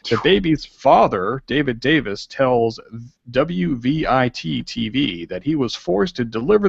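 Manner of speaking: half-serious news anchor read; newsreader voice. Pretend. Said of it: "I will get my newsreader voice out".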